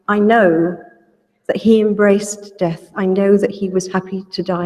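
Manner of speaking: ordinary talk, nothing marked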